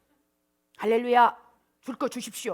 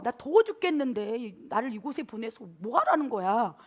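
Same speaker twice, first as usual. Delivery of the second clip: acted irritated outburst. Jonah complaining to God about the heat, acted irritation. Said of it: "막 이런 막 분노가 쏟아지다가".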